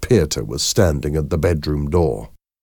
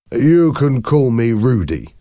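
higher-pitched nervous friendliness; nervous smile; 7 semitones higher, 4 dB louder than usual. A narrator's reading. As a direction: offer it with an uneasy smile. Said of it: "Rudy Hoven smiled nervously".

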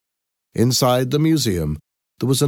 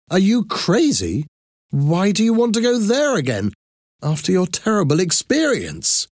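much higher, incredulous questioning voice; disbelieving sister; 11 semitones higher than usual. Acted. Sister to sister about returning to the museum, incredulous. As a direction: question her sanity in a high voice.

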